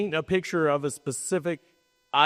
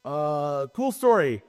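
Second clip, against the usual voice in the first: dry, sarcastic reaction; 2 semitones lower, slower than usual. Acted. Speaker reacting to a slide on stage, sarcastic. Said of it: "That's sarcasm".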